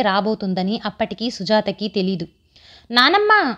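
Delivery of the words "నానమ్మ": higher, drawn-out mild wail for grandma; lightly acted tearful child's call; sobbing wail. A narrator's reading. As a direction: whine it out, understated. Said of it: "వెక్కి వెక్కి రాగాలు పెడుతున్న".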